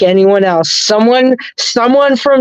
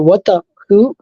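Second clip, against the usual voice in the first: baffled reaction; 3 semitones higher than usual. Retold or imitated. Recalling relatives suddenly switching accent, baffled. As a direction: act out being thrown and confused.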